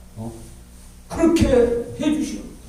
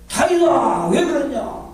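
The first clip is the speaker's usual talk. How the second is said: loving reproach; 5 semitones higher, slower than usual. Retold or imitated. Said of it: "다윗은 사랑하니까 그래".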